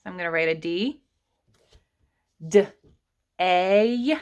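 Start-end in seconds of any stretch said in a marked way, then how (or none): 2.5-4.2 'D-A' as separate sounds, duh then ay; sounded-out word. Shown as a demonstration. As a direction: break day into 'D' and a drawn-out 'A'. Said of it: "I hear an A saying its name".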